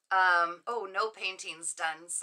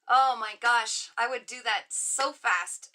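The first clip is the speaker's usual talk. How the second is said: excited gush; 5 dB louder, slower than usual. Real, not acted. Excited reply to viewer.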